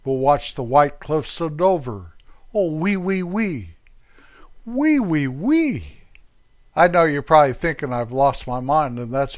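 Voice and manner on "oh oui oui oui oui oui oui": high, swooping sing-song oui oui; playful French catchphrase. Pretend. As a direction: playfully squeal your French yeses.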